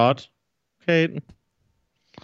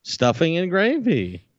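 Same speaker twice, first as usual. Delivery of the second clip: prissy; 5 semitones higher, slower than usual. Acted. Continues the prim voice.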